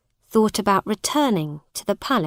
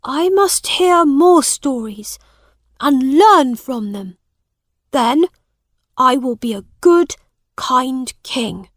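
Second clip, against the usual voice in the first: put-on higher, eager boy's voice; young prince; 5 semitones higher, 6 dB louder than usual. A narrator's reading. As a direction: resolve it like an earnest boy. Young Edward resolves.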